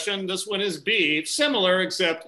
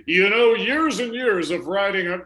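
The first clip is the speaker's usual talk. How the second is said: cartoon cowboy voice; 3 semitones higher, 3 dB louder than usual. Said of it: "now it sounds like a cartoon character".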